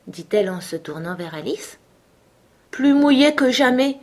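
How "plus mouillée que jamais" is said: put-on mildly doleful little girl, pitched up; a touch of glumness in a higher voice; melancholy. A narrator's reading. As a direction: lament it lightly. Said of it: "répondit la fillette d'une voix mélancolique".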